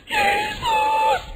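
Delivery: long, very high wail; drawn-out panicked scream; imitated frightened believer. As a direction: shriek the name in mock terror. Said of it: "saya bingung gini".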